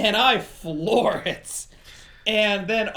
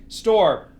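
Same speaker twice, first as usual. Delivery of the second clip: louder, short call of a name; calling for attention; 6 dB louder than usual. Retold or imitated. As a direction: call out to someone ignoring you. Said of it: "I was trying to get his attention".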